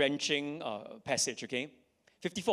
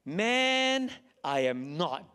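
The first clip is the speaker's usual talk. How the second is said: Peter's denial; 3 dB louder, much slower than usual. Acted. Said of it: "I don't know whether there's an accent there".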